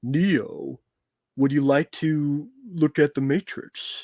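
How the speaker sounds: very slow, drawn-out, actorly voice. Mocking an actor who tried to sound like Lawrence Fishburne: Lawrence Fishburne voice. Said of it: "tried to sound like Lawrence Fishburne".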